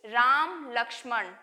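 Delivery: राम लक्ष्मण said slowly with a pause at the comma; slow, deliberate example reading; slow demo. Shown as a demonstration. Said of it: "जैसे".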